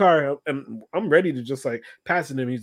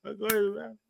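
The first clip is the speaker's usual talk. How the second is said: softly mumbled excuse, slightly raised pitch; really low; 5 semitones higher, 6 dB quieter, faster than usual. Retold or imitated. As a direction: slip the excuse out under the music. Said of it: "I said it really, really low".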